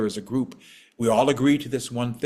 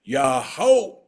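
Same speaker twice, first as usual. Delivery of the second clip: a call to push, loud; elder calling out the word; old man's yell; 4 dB louder than usual. Acted. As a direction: lead the crowd with one shout. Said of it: "and the old man yelled out".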